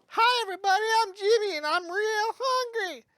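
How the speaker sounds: high, cheerful cartoon dinosaur, slowing on hungry; friendly hungry dinosaur. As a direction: greet everyone like a goofy hungry dino. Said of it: "And Jimmy's like".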